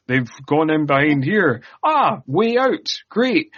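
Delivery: mock plot narration hurrying past a death; brisk brush-off. Co-host parodies the film moving on from Eleanor's death, dismissively. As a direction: toss off each new discovery with perky little "ah"s. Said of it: "It's just like, um".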